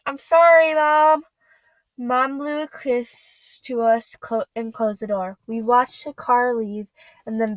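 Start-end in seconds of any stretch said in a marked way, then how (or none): 0.1-1.3 tearful apology. Acted. Auggie apologizes to departing Mom.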